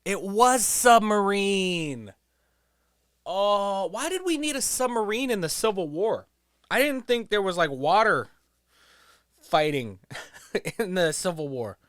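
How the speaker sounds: high, loud disbelief; stunned he got it wrong; reacting to the quiz answer, high and loud; real surprise. Real, not acted.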